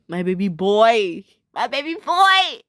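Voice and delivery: drawn-out doting coo rising to a squeal; fangirl gushing. Real, not acted. Fan cooing over a favourite cartoon character, fangirl gushing.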